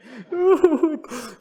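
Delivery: loud, high imitated sobbing; mock wail. Husband breaking down before God, high mock wail. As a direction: wail high in hammed-up tears. Acting out his own crying.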